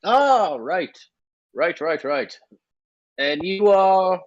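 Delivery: high gnome voice, catching on; gnome ticket-taker. Acted. Gnome checks who the passengers are, high-pitched. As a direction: answer up high as the little gnome. Game master plays the gnome.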